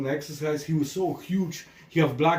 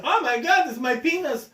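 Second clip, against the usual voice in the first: higher, louder, hammed-up panic; mock panicked caller; 13 semitones higher, 4 dB louder than usual. Caller to the psychic show, a hammed-up panic. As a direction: play Howard freaking out on the phone. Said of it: "And he said".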